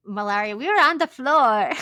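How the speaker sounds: high, loud hammed-up quote; mock couple's confession. Host mimics the boat couple telling their story, hammed-up confession. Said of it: "they were just like".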